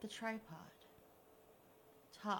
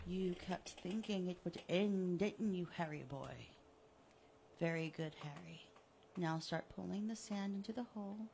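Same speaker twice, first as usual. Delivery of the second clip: gloating villain; 2 semitones lower than usual. Acted. Killer taunting the buried Harry, smug and mocking. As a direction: taunt him like a cat with a mouse.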